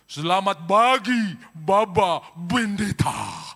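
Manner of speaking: Arab accent, slow and loud, "pagi" said "bagi", "Bendeta" with B; booming Arab accent greeting with B for P. Shown as a demonstration. Pastor mimics Arab greeting in Arab accent. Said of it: "Semua P jadi B".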